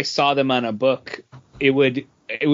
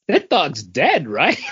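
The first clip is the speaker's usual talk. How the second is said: laughing disbelief; slower than usual. Retold or imitated. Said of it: "And I was like".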